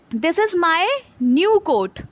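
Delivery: very slow, word by word; slow read-aloud. Shown as a demonstration. Teacher reading the example sentence, very slowly. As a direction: drag out each word for the class. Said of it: "अब ये वाला देखो यहाँ पे".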